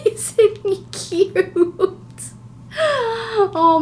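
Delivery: high, slow, cooing lisp; baby talk with a lisp. Acted. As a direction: coo at the dog with a lisp. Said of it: "I'm gonna be talking with a lisp".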